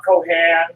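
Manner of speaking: "Kohan" with a short A, as koh-HAN; "Kohan" pronounced koh-han, second vowel open; variant pronunciation. Real, not acted. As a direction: say "Kohan" with a sounded H, ending in HAN. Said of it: "however you pronounce it".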